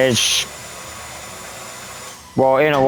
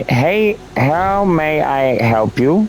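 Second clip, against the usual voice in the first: assistant voice; much slower than usual. Pretend. Assistant voice, high and slow.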